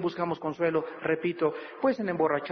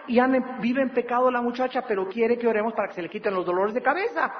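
scolding pastor; 5 semitones higher than usual. Retold or imitated. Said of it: "le digo a su mamá".

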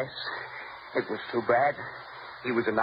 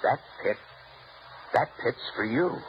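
menacing tease; 4 semitones lower, 3 dB quieter than usual. Acted. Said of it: "it's so funny when you talk like that".

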